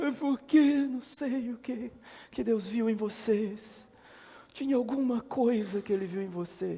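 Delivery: acted, weepy, very high, tearful crying voice. Retelling a trailer where a preacher speaks moved: imitating a tearful voice. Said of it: "com a voz chorosa".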